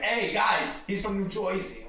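imitated mocking crowd; mocking teasers. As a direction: poke fun at the accent, Jersey as "Joyzy". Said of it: "they'll start making fun of me".

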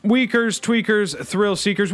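hyped host catchphrase; show intro catchphrase. Acted.

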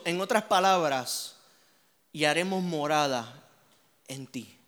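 hushed preaching. Real, not acted. Intimate hushed sermon passage.

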